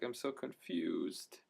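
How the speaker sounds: retold confusion. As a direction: stretch it out, helplessly confused, lightly acted. Retold reaction to the inspector.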